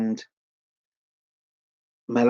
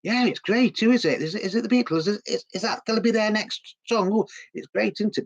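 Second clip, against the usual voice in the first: much higher, excited cabbie voice; imitating a taxi driver; 9 semitones higher than usual. Taxi driver interviewed on the street, high and excited. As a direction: play the chirpy cabbie, pitched way up. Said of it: "and he's going".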